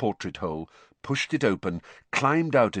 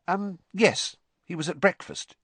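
put-on higher, hesitant girl; Hermione, hesitant; 11 semitones higher than usual. A narrator's reading. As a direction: hold back, unsure what to say.

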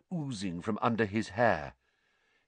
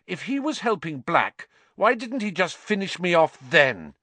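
put-on boy voice; 7 semitones higher than usual. Harry arguing, voiced higher.

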